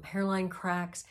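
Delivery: ordinary delivery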